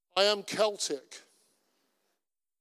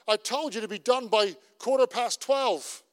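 raised, a little louder, agitated; agitated retort; 4 semitones higher, 4 dB louder than usual. Retold or imitated. Pastor voicing an irritated colleague, a bit agitated. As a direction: snap back about the deadline. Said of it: "he's a bit agitated about it".

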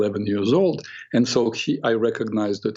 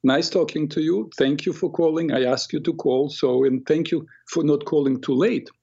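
speaking nicely. Retold or imitated. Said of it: "like, speaking nicely".

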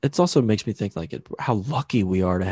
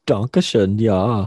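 put-on German accent; 4 dB louder, much slower than usual. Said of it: "German accents".

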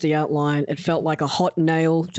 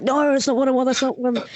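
alarmed protest; 9 semitones higher than usual. Retold or imitated. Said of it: "And I'm like".

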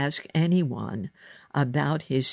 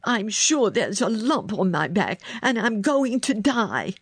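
high, overwrought complaint; distressed outburst; 6 semitones higher than usual. A narrator's reading. Sick boy tells girl of his lump, distressed outburst. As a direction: insist on doom, petulantly.

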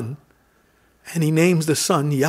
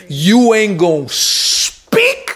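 stern divine voice; 2 semitones higher, 4 dB louder, much slower than usual. Acted. Angel silences Zechariah, preached.

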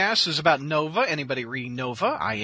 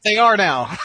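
laughing, a bit louder; 3 semitones higher, 5 dB louder, slower than usual. Real, not acted. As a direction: say it through a laugh. Repeats with laugh.

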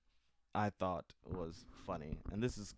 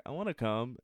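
higher, louder mock whine of a wife; raised-pitch, insistent mock wife; wife pleading; 5 semitones higher, 8 dB louder than usual. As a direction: imitate a wife insisting on tagging along. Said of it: "Your wife's like".

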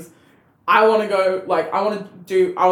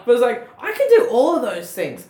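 laughing; 6 semitones higher, 5 dB louder than usual. Real, not acted. Laughing after friend's laugh.

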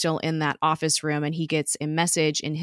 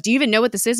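louder, higher incredulous question; retold challenge; 6 semitones higher, 6 dB louder, much faster than usual. Team questions Simmons about the chamber, loud retold challenge. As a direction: imitate a pressing challenge, raised in pitch and volume.

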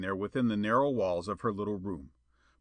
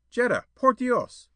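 high, loud, slow exasperated call; fuming; 13 semitones higher, 7 dB louder than usual. A narrator's reading. Suitor fuming at her window, loud and exasperated. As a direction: fume at her silence. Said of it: "He fumed".

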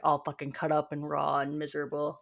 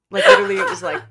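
emphatic high exclamation; 10 dB louder, much faster than usual. Real, not acted.

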